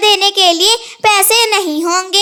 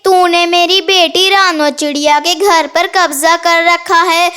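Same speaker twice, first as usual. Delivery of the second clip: lightly voiced vengeful ghost mother; mildly spooky, menacing warning; pretend ghost. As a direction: threaten like a ghost, drawing out the name. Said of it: "Kalu कौवे को डराने जाती है".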